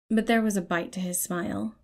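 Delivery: ordinary delivery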